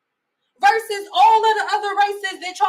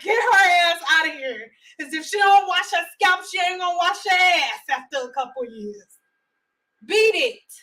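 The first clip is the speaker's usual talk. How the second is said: mock stern mother. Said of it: "I'm gonna be like".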